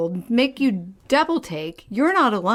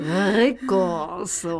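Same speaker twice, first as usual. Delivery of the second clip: put-on slow Latin accent with the R of 'Rico' rolled; 4 semitones lower, much slower than usual. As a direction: roll the R in 'Rico' like the singer. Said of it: "He rolls his tongue, too".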